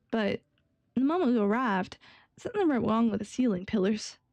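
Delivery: lightly voiced guard with a Southern twang; attempted Texan. Young guard recounting the monster in the swamp, loose Texan accent. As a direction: tell the tale in a rough Texan accent.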